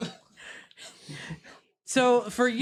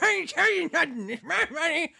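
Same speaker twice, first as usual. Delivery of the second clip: gruff thug, quicker and higher; mildly higher bandit growl; Bandana Herbert's voice; 6 semitones higher than usual. Acted. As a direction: snarl it like a stubborn thief. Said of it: "he's like".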